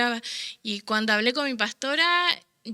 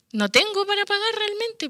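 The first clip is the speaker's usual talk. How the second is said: retold distress; 9 semitones higher than usual. Retold despair over unpaid rent.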